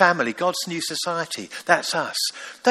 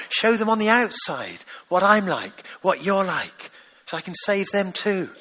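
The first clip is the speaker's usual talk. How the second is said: fatherly plea. Pretend. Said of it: "where your father might be saying to you".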